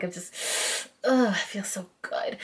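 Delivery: breathy hushed whisper of delight. Real, not acted. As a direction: whisper it, savoring the feel. Savoring soft hair texture.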